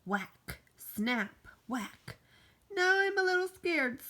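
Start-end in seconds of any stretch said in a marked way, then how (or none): 2.7-4.0 higher, louder sudden fright; scared. Acted. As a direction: blurt it out in a panic. After branch snaps.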